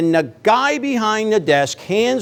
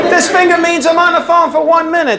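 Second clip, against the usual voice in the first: laughing; 9 semitones higher than usual. Shown as a demonstration. Demonstrating the finger to audience.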